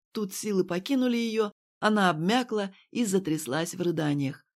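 ordinary delivery

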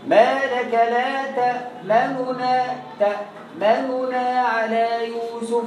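تأمننا with the first damma rushed and shortened; slow recitation, snatching the first damma of تأمننا; slurred damma. Shown as a demonstration. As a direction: recite تأمننا with a quick, half vowel. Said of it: "وتسرع في النطق بالضمة الأولى".

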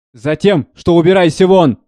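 angry dismissal. Acted. Steward shouts the servant out of the room, loud and angry. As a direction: throw him out.

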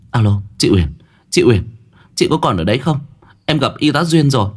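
insistent, excited repeat of the news; urgent calling. Acted. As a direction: check she is there, voice climbing. Calling into a silent phone line.

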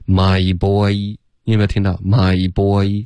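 put-on My boy with both words ending in a full "ee"; full final glide. Shown as a demonstration. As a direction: draw out the closing glide in My boy. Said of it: "一一定要发得饱".

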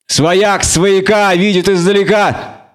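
slow, high-pitched ominous jeer; drawn-out, malicious half-elf taunt; sinister smirk. A narrator's reading. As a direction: say it through an evil grin. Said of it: "зловеще ухмыльнулся полукровка".

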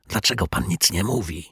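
a hint of uneasy hushed asking; anxious whisper. Caretaker quietly asks the silent detective, anxious and hushed. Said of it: "szepnął z niepokojem".

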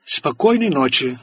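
even, slow, toneless; flat, expressionless tone. Acted. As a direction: say it cold, cutting him off. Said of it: "ровным и ничего не выражающим тоном".

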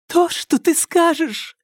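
high, frightened, rushed reply; hurried trembling voice. A narrator's reading. Alka hastily reassures the angry psycho, high and frightened. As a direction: blurt it out, scared, trying to please. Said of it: "торопливым дрожащим голосом".

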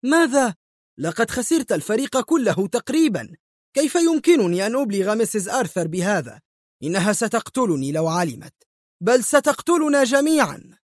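high-pitched alarmed outburst; horrified cry. A narrator's reading. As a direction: cry out in horror, pitch shooting up. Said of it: "صاح مايكل في ارتياع".

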